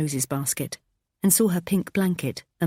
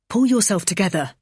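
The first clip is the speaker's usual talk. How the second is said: snapping; 4 semitones higher, 4 dB louder than usual. Acted. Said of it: "he snapped".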